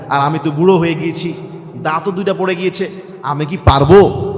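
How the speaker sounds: put-on soft, low worried old man; old man's worry. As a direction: ask timidly like an old man who lost his teeth. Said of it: "এখন বলতে পারেন". (লাজুক বুড়ো মানুষের ভীরু কণ্ঠে)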